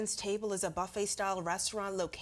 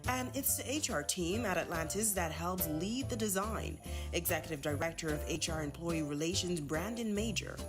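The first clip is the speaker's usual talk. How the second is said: news voiceover read. Acted. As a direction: read it like a TV package.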